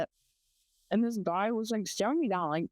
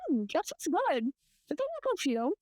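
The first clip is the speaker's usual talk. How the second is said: higher-pitched mock admirer; lightly voiced creepy flirt, pitched up; imitated male customer; 5 semitones higher than usual. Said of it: "he's like".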